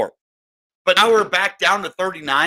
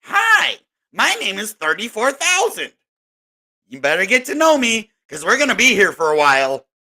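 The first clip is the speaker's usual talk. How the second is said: price personified; 5 semitones higher than usual. Pretend. Price introducing itself.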